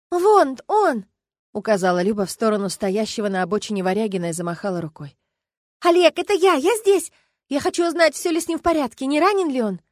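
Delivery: high, loud call across the road. Acted. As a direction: wave and shout to be seen. Люба зовёт Олега через дорогу. (Люба громко зовёт Олега через дорогу)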